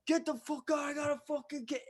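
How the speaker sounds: high mocking trucker voice; mock driver yell. Truck driver telling him to leave, high mock yell. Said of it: "the guy's like".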